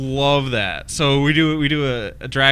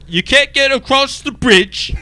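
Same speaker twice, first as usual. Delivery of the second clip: high, slow, put-on troll voice with terrible Cockney; bridge troll voice; 12 semitones higher, 7 dB louder, slower than usual. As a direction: drag it out like a silly troll guarding the bridge. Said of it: "So I'd be the bridge troll".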